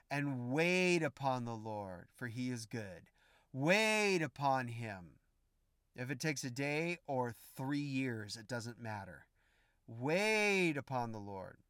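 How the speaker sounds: slow, hushed call to wait; drawn-out, gentle urging; soft and slow. Real, not acted. Preacher softly urges waiting.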